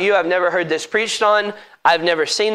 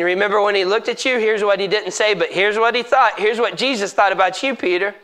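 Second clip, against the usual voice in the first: Satan taunting; 2 semitones higher than usual. Acted. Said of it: "And Satan saying".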